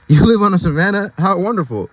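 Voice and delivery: high, fast wistful wonder; dreamy Max. Acted. Max dreams of the zebra's savanna, high wistful voice. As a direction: dream aloud about far-off lands. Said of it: "Max said dreamily".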